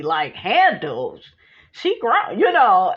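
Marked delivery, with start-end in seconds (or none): 0.3-1.2 incredulous. Retold or imitated. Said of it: "Eugene looking all crazy".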